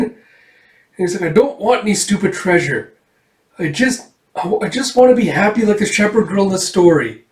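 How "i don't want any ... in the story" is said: put-on high, wishful child's plea; mildly upset little-girl voice; acted tearful girl. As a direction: plead in a higher, childish pitch. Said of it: "tears streaming out her face".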